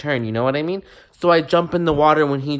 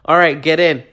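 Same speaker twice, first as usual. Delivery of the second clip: louder, commanding call; 4 semitones higher, 8 dB louder than usual. Retold or imitated. Trainer calling the class into the water, loud. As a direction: call it across the pool.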